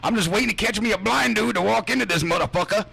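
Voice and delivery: mock her as a villain lying in wait; mocking impression. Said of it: "she's like".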